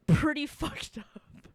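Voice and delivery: slow laughing emphasis. Real, not acted. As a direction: laugh through it, drawn out.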